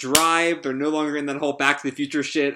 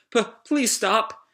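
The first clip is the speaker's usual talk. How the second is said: high, slow, stammering plea; frightened android; 8 semitones higher, slower than usual. Acted. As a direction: plead timidly in a high voice. Pino begs Sabir to stop.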